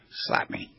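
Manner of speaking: whispered, dared request to be slapped; quiet request. Retold or imitated. Asking his friend Will for a slap, whispered. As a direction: breathes the dare at his friend.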